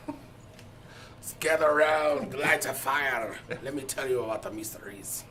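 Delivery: slow, hushed spooky storytelling; campfire storyteller. Pretend. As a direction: gather them round the fire, slowly. Mock campfire folklore telling.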